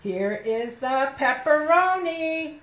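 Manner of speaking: drawn-out read-along, word by word; slow model reading. Shown as a demonstration. Teacher leading children through pepperoni sentence, slow model reading. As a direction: stretch each word so children can follow.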